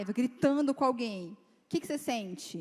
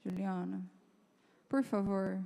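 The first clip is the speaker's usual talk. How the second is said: weary husband; 4 semitones lower, 4 dB quieter than usual. Retold or imitated. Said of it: "Dele fala assim pra mim".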